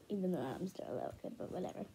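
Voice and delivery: talking while chewing; words round a chewing mouth. Real, not acted. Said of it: "I'm chewing my mouth".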